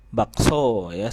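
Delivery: Bakso spoken slowly, each syllable clear; teacher modelling Bakso slowly; slow demo word. Shown as a demonstration. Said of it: "ngomong bakso aja bisa kok".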